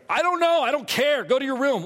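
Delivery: put-on a fed-up father snapping back at the kids; mock irritated parent; exasperated dad snapping. Pastor voicing his own exasperation.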